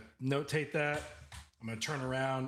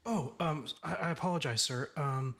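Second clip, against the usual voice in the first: flustered apology; 3 semitones higher than usual. Acted. Assistant apologizing to the angry boss, flustered. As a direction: stumble over a timid apology.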